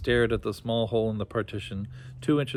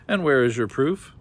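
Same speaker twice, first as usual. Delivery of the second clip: shout; 3 semitones higher, 6 dB louder than usual. Acted. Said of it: "shouted Tinker".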